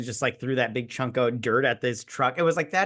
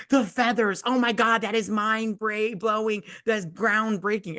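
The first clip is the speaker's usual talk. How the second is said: sarcastic mock awe; 7 semitones higher than usual. Sarcastic mock awe at plot twist.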